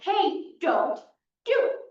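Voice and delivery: mock yelled warning, jumping high at the end; repeated retold yell. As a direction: call out the warning, punching the last words. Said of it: "So he repeats himself".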